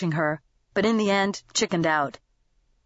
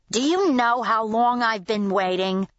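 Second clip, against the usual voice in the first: a lightly voiced irate customer, pitched up; high-pitched demand; 3 semitones higher than usual. A narrator's reading. Customer complaining to the waitress, high-pitched demand. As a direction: demand it, a touch shrill in pitch. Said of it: "demanded in a high-pitched voice".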